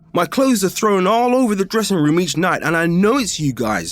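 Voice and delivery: exasperated, calling out the prank; heated but still telling the story; agitated. Retold or imitated. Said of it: "I'm getting agitated at this point".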